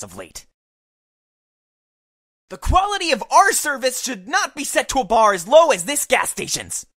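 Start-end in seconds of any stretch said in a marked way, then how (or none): 2.5-6.8 raised, louder scolding announcement; shouting. Acted. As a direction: lecture them loudly, pitch up. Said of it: "kinda rude to be shouting that".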